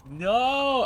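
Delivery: sudden loud, high no. Real, not acted. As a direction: blurt a loud denial at chat. Loud denial to chat.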